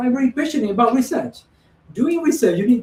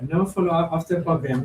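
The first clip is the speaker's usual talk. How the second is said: clear repeat. Real, not acted. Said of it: "Can you speak louder, please?".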